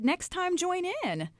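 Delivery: imitating a sweet, high-pitched invite; sweet invitation. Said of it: "grinned at me just as sweetly as possible".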